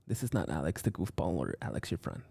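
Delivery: lightly voiced self-important businessman; soft-spoken boss telling the crew to chillax; Alex the businessman voice. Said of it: "This is Alex the businessman talking again".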